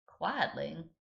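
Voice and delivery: put-on American Southern accent, drawled question; puzzled waitress with American Southern accent. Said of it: "giving her an American southern accent".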